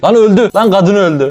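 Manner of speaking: can't believe she just died; shocked. Real, not acted. Game wife suddenly dies.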